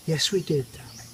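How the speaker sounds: soft, fading to a whisper; soothing wife. Retold or imitated. Wife calming husband about missing hammer, soft. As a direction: hush him gently, almost whispered.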